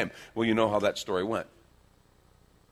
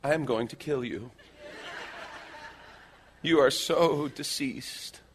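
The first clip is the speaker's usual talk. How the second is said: voiced death glare; 5 semitones higher than usual. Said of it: "But the look simply said".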